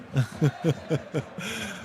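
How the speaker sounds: quiet chuckle at a chat joke; soft laugh. Real, not acted. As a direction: laugh softly at the comment. Laughing at viewer's LOL.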